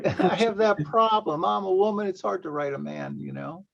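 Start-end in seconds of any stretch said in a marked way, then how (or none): 0.0-2.1 laughing while admitting it. Real, not acted. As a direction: speak through a real laugh, pitched up. Laughs at shared writing problem.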